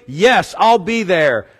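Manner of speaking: slow, overly easy "Yes, I'll be there"; empty promise. Retold or imitated. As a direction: drawl a breezy promise. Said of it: "Are you gonna come help me".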